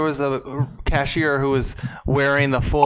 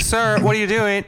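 higher, drawn-out mock reprimand; mock store-lady challenge; 6 semitones higher, slower than usual. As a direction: lightly imitate an officious clerk, slow and higher. Listener mimics the store lady.

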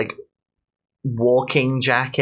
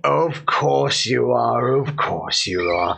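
soothing cooing. Acted. Oxen cooing at her.

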